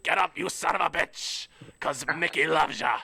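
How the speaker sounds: hint of Mickey barking at his fighter; Mickey the corner man. Trainer urging his fighter to get up, lightly voiced gruff coach. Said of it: "fucking Mickey talking to Rocky".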